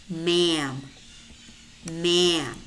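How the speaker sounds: ma'am as one syllable, no D; silent D. Shown as a demonstration. Teacher models silent letters for learners, silent D in ma'am. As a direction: say ma'am as "mam". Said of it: "but it's silent".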